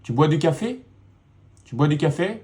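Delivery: "Tu bois du café?" with the voice rising on "café"; rising question tune. Shown as a demonstration. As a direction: end "Tu bois du café?" on a lift. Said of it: "I'm raising my voice".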